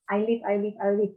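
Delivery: quick repeated "I liv" for "I live"; teacher drilling the short vowel in "live"; correct "live". Shown as a demonstration. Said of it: "Ingat-ingat aja".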